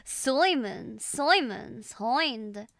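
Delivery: drawn-out put-on Scottish, hind stretched; Scottish accent attempt. Streamer practising lines in accents, attempted Scottish. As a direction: try on a Scottish accent, slowly. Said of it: "this one's harder than Scottish".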